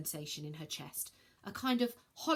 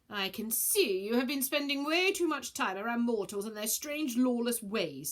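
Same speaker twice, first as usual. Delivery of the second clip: disdainful; 4 semitones higher, 4 dB louder than usual. Acted. Scorpio disdainful.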